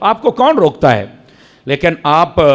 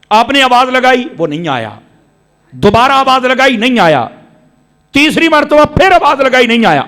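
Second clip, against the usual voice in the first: building storyteller call; 7 semitones higher, 3 dB louder than usual. A narrator's reading. Story of calling the servant.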